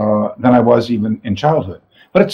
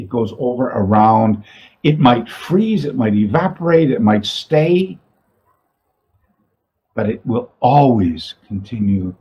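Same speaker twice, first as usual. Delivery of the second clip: proverb recitation. Shown as a demonstration. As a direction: recite it deliberately, letting each phrase stand. Reads a proverb aloud.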